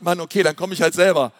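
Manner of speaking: lightly voiced bored Elisa, "Mann, okay" tossed off fast; bored sigh. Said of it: "richtig gelangweilt an und sagt".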